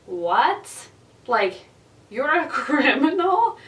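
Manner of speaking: high, rising shocked question; incredulous. Retold or imitated. Teller acting out her shock at the kid's juvie confession, incredulous. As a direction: draw it out in mock disbelief. Acts out shocked reaction to the kid.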